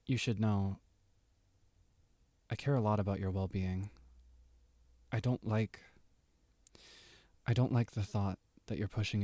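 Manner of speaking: put-on caring older character, gentle anime voice; soothing host welcoming someone home; overacted anime dub. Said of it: "anime dub tone".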